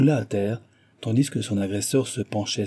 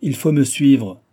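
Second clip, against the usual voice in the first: loud, slow, raised order; growled command; 4 semitones higher, 6 dB louder, slower than usual. A narrator's reading. Japanese kidnapper orders his struggling captive, growling. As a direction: order it forcefully and slowly. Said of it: "gronda le Japonais".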